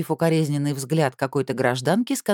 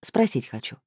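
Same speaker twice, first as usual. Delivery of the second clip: peaceable tone. A narrator's reading. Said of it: "миролюбивым тоном добавила".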